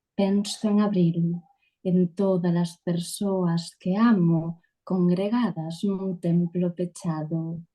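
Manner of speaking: measured Galician poem recital with pauses between lines; unhurried recital, occasional emphatic words; poetry reading. Acted. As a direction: read your poem aloud, letting each line settle. Reads own poem aloud in Galician.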